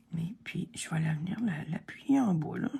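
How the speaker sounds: soft whisper while pressing down. Real, not acted. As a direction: whisper as you focus on the task. Concentrating, pressing the piece.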